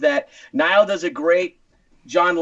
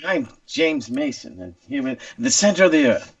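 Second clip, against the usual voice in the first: James Mason; 6 semitones lower than usual. Shown as a demonstration. Host practising his impression for the guest, lightly put-on English actor. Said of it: "changing mine to James Mason".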